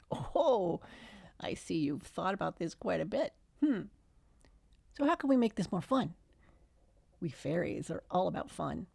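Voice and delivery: lightly voiced elf-like fairy, musing; a hint of a whimsical fairy thinking aloud; playful fairy voice. Fairy muses to Margaret, lightly playful voice.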